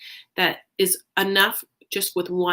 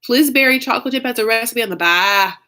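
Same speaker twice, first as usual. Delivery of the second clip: Pillsbury chocolate chip said louder, to make sure Lisa hears; raised voice repeating for a viewer; 3 semitones higher, 6 dB louder than usual. Real, not acted.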